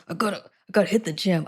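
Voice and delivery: lightly voiced husky man. Joking about working out to mom, mock husky man voice. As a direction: play at a gruff gym guy. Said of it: "So give my husky man voice".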